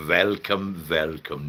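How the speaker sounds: attempted Dutch accent, comes out German; German-sounding welcome. Shown as a demonstration. Streamer trying to greet Dutchman, accidental German accent. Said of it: "it sounds a bit German".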